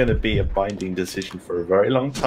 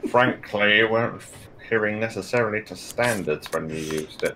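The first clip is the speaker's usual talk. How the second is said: health and safety bloke. Shown as a demonstration. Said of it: "There is also health and safety bloke".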